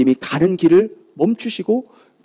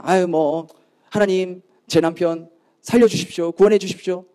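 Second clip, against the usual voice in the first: half-hearted, routine recital of a plea; mock complacent prayer; 3 semitones lower than usual. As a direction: pray as if out of mere habit. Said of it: "아니란 마음으로".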